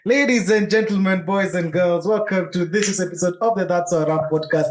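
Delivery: grand entrance announcement. Acted. Show opening announcement.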